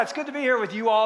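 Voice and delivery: "you all" said as two words; two separate words. Retold or imitated. Ann greets the crowd, "you all" as two words. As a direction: keep "you all" apart, not contracted. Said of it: "it's not you all".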